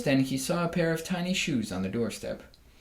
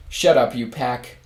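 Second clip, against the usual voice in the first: louder, slow angry shout; boy shouting at the hens; 7 dB louder, slower than usual. Acted. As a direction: yell at the hens to shut up.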